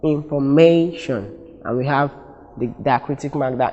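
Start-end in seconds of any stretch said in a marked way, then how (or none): 0.0-1.3 INFORMATION slowly, with MAY as the strongest syllable; stress on third syllable. Shown as a demonstration. Teacher showing main stress, weight on MAY in INFORMATION. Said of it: "the third syllable".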